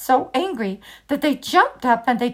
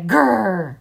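tiger growl; 2 semitones lower than usual. A narrator's reading. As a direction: growl back. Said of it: "they could only say".

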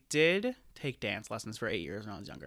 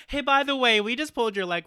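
mom's gleeful confession; 9 semitones higher, 7 dB louder than usual. Acted. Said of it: "my mom goes".

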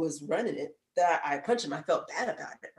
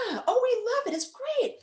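much higher, bubbly mock-cheerful; gushing coworkers. Coworkers telling her they love the job, mock-bubbly high voice. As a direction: lay on the sugar-sweet enthusiasm.

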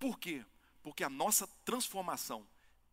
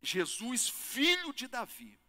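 acted beggar's call; 6 semitones higher, 4 dB louder, slower than usual. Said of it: "Ele diz".

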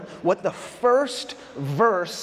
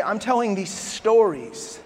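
earnest Jesus; 3 semitones lower than usual. Retold or imitated. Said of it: "Jesus would say".

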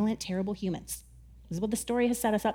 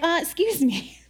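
higher, louder, slow and incredulous; mock angry sailors; 4 semitones higher, 3 dB louder, slower than usual. Angry sailors scolding Jonah, mock outrage. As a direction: scold Jonah like an exasperated crew. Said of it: "They were like".

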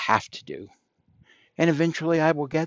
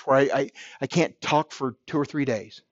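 usual speaking voice

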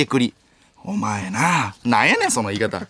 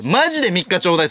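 more pleading repeat; 4 semitones higher than usual. Shown as a demonstration. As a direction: beg for the three days with more urgency.

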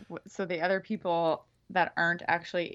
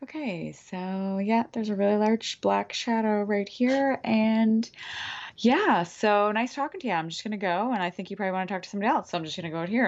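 nervous; 3 semitones higher than usual. Retold or imitated. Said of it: "And I'm like".

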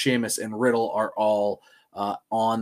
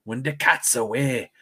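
mock Irish accent; 3 dB quieter than usual. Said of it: "with your Irish accent".

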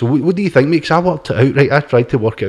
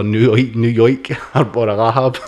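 lightly hammed-up old gangster-film New York accent; mock New York mobster, breaking into laughter; cartoon gangster New York accent. Podcaster teasing New Yorkers in a badly faked cartoon New York accent. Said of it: "sound like something off a cartoon".

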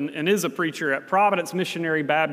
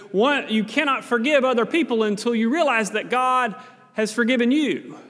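raised, higher preaching voice; a hint of a fiery Baptist preacher; imitating a preacher; 5 semitones higher than usual. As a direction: preach it out to the room. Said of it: "He would say something like".

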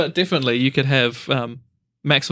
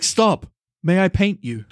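quoted cartoon joke; 4 semitones higher, slower than usual. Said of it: "that Family Guy joke where he's like".

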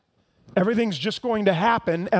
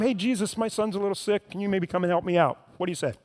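softer, breezy, offhand ask; mock casual request; 4 dB quieter, faster than usual. Preacher mocking a father's too-casual request, softer and offhand. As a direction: toss it off like a small favour. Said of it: "This wasn't just like a one-time".

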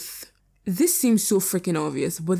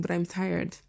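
soft, worn-out tired voice; 7 dB quieter than usual. Real, not acted. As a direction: let it sag with tiredness. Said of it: "I've been recording for way too long".

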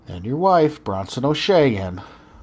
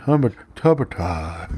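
laughing mock quote; 5 semitones lower than usual. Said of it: "you're like".

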